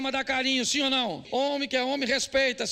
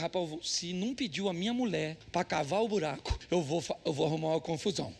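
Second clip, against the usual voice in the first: grumbling to himself; 5 semitones lower than usual. Retold or imitated.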